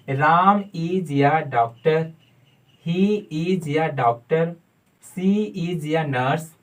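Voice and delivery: slow, deliberate example sentences; model sentences. Shown as a demonstration. Teacher modelling sentences slowly for students. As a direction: say each example slowly for the learner to copy. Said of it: "अब बोलिए English".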